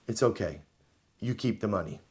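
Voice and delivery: mock whisper. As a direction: lean in and say it under your breath. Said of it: "The halacha whispers into Ruvain's ear".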